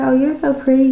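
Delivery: lightly mock her fake compliments; mock gushing neighbor. Neighbor gushing over my makeup, mock sweet.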